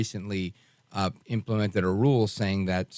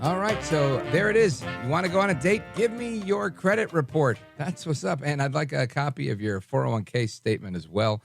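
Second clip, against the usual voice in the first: half-joking, pitched up high, demanding; playfully bossy, pitched up high; mock demanding; 5 semitones higher than usual. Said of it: "I'm just being facetious".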